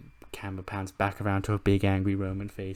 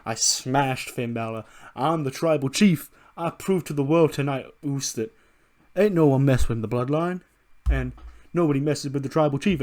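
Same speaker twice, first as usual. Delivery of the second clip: boastful tribal chief; 3 semitones higher than usual. Acted. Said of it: "Kiko's like".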